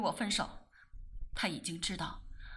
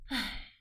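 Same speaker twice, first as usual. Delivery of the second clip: soft weary sigh; a quiet sigh; 3 dB quieter than usual. Acted. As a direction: let the breath out tiredly. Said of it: "更生叹口气".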